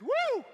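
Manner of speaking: high, loud whooping yell; loud woo scream. Retold or imitated. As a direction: let it rip with a huge woo. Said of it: "I screamed".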